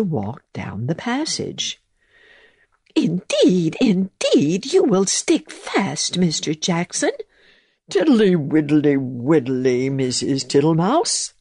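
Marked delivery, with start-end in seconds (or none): 2.9-7.1 higher, fussy little mouse voice. A narrator's reading. Mouse warning the toad he will stick, high and fussy. 7.9-11.3 lightly voiced humming toad; jolly toad. A narrator's reading. Toad brushing off the mouse, cheerful. Toad's reply.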